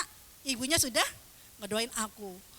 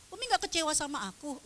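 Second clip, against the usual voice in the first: put-on anxious child; 5 semitones higher, faster than usual. Child anxiously questions mum, retold.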